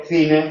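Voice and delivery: "cine" with a lisped th sound at the start; "cine" said slowly, tongue between the teeth; interdental c. Shown as a demonstration. Teacher demonstrates the interdental "cine". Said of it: "frente a cama".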